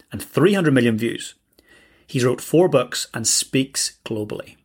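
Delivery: measured announcer read with deliberate phrasing; guest introduction read. Acted. Host introduces Evan Carmichael to listeners, scripted announcer read.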